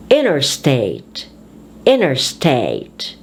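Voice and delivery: first part of "Interstate" stressed; compound stress. Shown as a demonstration. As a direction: hit the start of "Interstate". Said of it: "you emphasize the first word".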